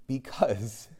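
very soft, with a long pause; hushed, deliberate words set apart; God's quiet answer. Retold or imitated. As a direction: let the answer fall softly, piece by piece. God's answer, repeated softly.

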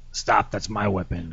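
low, slow doll voice; talking plush toy. Retold or imitated. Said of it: "he says".

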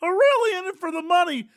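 passionate pundit. Pretend. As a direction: preach about heart like a pundit. Mock sportscaster passion.

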